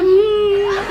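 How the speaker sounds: high mock whimper behind closed lips; muffled sob. Child ordered silent, mock muffled whimper. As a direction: hum a stifled, exaggerated cry. Child stifling sobs after warning.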